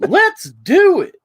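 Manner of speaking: high slow creepy toy line. Retold or imitated. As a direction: stretch it out high like a creepy bear. Imitating the toy.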